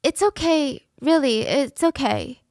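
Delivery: imitated victim soothing her attacker; comforting. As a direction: reassure him carefully. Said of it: "comforting her own attacker".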